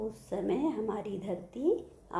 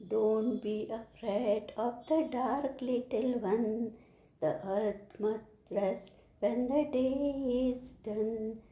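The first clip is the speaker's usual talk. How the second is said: slow, drawn-out recital; poem recitation; much slower than usual. Shown as a demonstration. Teacher reciting the poem for children to follow, slow recitation. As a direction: recite it slowly, stretching the words. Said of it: "I am going to recite the poem".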